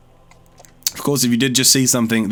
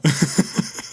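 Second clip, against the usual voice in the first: shaky breathy laugh; 4 semitones higher than usual. Real, not acted. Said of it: "I'm, like, shaking right now".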